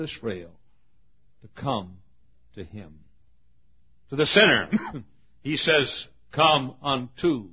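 measured preaching with punched openings; sermon litany. Acted. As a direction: preach it in a rolling list, each phrase falling away.

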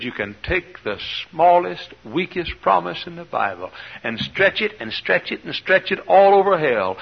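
slow, high, stretched-out quote; quoting an old preacher. Retold or imitated. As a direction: stretch the words like the promise. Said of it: "Uncle Bud Robinson said".

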